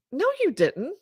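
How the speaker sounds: very high, rising denial as the wife; imitated disbelief. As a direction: mimic the wife's incredulous high-pitched protest. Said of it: "That's how it sounds".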